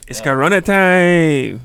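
weak catchphrase. Acted. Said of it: "That was weak".

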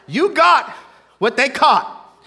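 loud and slow, leaning on they; slow it down and hammer it; emphatic repeat. Acted. Preacher repeating to congregation, slow and loud.

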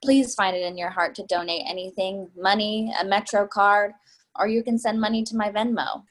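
a well-worn sob story for the subway car; rehearsed sympathetic plea. Acted. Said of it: "speaks in a sympathetic but rehearsed voice".

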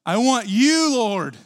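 fervent vow. Retold or imitated. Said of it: "It's literally physically saying".

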